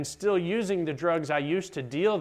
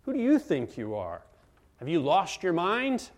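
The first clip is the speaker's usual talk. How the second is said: mock disparagement. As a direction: imitate disparaging disbelief. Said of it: "disparagement came".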